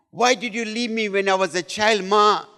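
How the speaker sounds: mildly tearful reproach; imitated crying plea. Wife asking her mother why she left, imitated tearful plea. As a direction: plead like an abandoned child, lightly acted. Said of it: "And she started crying".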